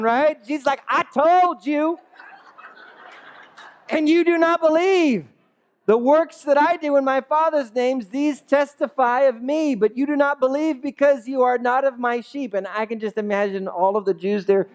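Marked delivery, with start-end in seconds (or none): 0.9-12.5 slow, weighty scripture reading. Shown as a demonstration. Pastor reading Jesus' words to the congregation, slowly. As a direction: let each word land slowly. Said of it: "slow it down".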